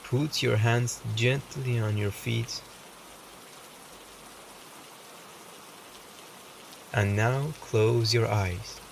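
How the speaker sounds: calm meditation voice with long pauses; softly reassuring meditation guide, unhurried; guided meditation. Acted. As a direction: guide the listener gently, leaving space between phrases.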